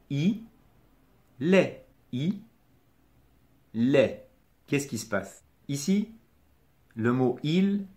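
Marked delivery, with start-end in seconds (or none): 0.1-4.3 "Il est" as "i", pause, "lè"; syllables split apart. Shown as a demonstration. Teacher starting over for the learner, separated-syllable demonstration. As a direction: leave a clear gap between "i" and "lè". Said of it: "Je recommence".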